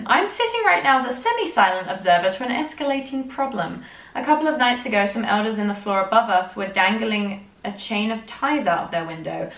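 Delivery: mock dramatic reading of a mission journal; mock serious journal reading. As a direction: read it like breaking news. Reads the journal in mock gravity.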